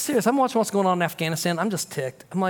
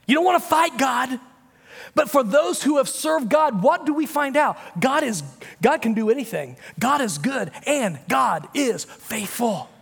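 full-force preaching; 8 semitones higher than usual. Acted. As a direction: preach it out to the back row.

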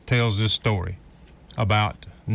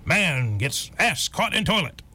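news headline read; 5 semitones higher, slower than usual. Retold or imitated. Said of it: "leads the story with".

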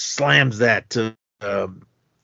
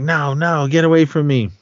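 mock panicked plea, higher pitched; higher, louder retold refusal; retold frightened protest; 6 semitones higher, 4 dB louder than usual. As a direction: act out fending someone off, voice raised. Frightened woman fends off attacker.

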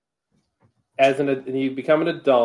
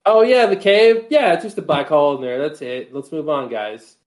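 breezy, dismissive shrug of a voice; nonchalant; 2 semitones higher than usual. Retold or imitated. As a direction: toss it off like it's nothing. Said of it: "almost like a nonchalantness to the answer".

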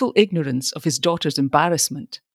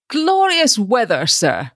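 genial; 6 semitones higher than usual. A narrator's reading. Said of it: "he observed genially".

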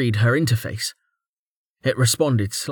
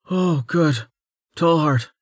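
higher-pitched, relieved greeting; clear relief; 6 semitones higher, slower than usual. A narrator's reading. Servant greeting Tallheart as he arrives, clear relief. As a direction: let relief lift the voice. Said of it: "said in clear relief".

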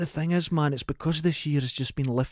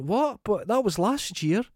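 mock surprise; 7 semitones higher, slower than usual. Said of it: "people have went".

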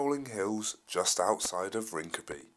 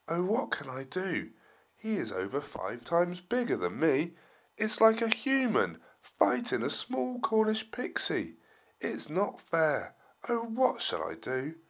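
nervous; 6 semitones higher, 4 dB louder than usual. Acted. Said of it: "very nervous".

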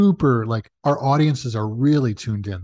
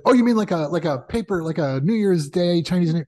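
confused question; 5 semitones higher than usual. Retold or imitated. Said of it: "And I said".

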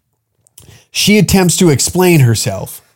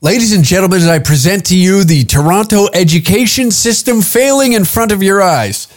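grand, raised announcer voice introducing a clip; mock announcer; 5 semitones higher than usual. Presenting the clip to his audience like a mock announcer. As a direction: present it like a showman.

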